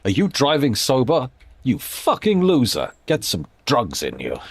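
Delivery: lightly voiced scolding ad pitch; mock advert. Spoof advert urging drivers onto drugs, mock scolding. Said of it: "Advert for drug driving".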